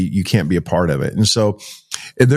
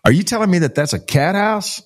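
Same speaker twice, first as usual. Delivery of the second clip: incredulous; 9 semitones higher than usual. Retold or imitated. Disbelief at driver's remark.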